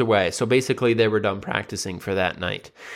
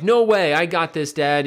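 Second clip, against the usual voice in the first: fired-up little brother; 6 semitones higher than usual. Retold or imitated. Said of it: "it motivated the little brother".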